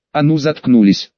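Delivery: sharp angry bark. Acted. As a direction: snap it out like a command. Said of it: "рявкнул я".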